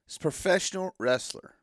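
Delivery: "professional wrestler" with weight on each word; stress on both words. Shown as a demonstration. Fan defining the term professional wrestler, stressing both words. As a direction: give "professional" and "wrestler" equal emphasis. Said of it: "emphasis should be on both of those words".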